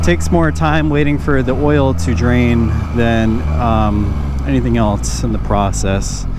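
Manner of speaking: muffled helmet mic over engine; talking from inside a helmet; inside a motorcycle helmet. Real, not acted. Riding bike, talking in helmet.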